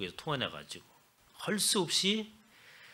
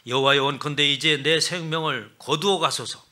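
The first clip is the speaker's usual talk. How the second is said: loud, desperate cry to be taken; desperate plea; 10 dB louder than usual. Retold or imitated. Jonah loudly begging God to let him die. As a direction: beg loudly for your life to end.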